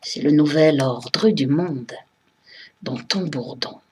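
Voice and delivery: solemn, measured militant verse; impassioned poem recitation. Acted. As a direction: declaim each verse, letting the line endings fall. Continues reciting her poem.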